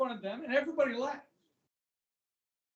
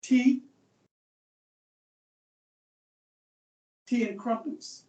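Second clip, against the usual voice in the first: mock British accent; 2 semitones higher, 6 dB louder, slower than usual. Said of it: "You know how the British are".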